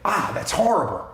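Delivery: rally them toward a fix; agreeing, solution-minded. Retold or imitated. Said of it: "And you go".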